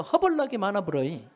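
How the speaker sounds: mildly voiced Jeolla dialect. Shown as a demonstration. Preacher showing his congregation the Jeolla dialect way. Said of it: "전라도 말로".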